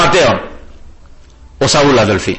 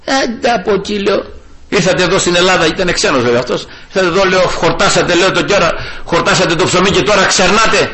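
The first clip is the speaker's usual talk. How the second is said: retold anger; 4 semitones higher than usual. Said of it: "θύμωσα".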